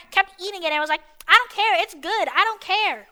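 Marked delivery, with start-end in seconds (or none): 1.3-3.1 higher mocking kid voice; lightly put-on careless kid; mocking dumb kid. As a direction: imitate the kid brushing it off. Mocks the kid's careless reply.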